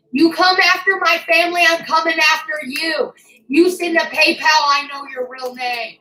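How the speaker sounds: real fury, threatening whoever came after her family; furious threat. Real, not acted. Furious rant at online harasser.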